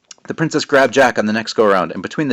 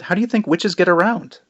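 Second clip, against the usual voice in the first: condescending; 10 semitones higher than usual. Acted. Exasperated Jack.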